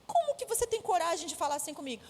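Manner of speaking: slightly childlike mock outrage; a hint of a manipulative little girl's protest; imitated indignant daughter. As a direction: lightly mimic an affronted child. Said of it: "porque desde pequena sabe te manipular".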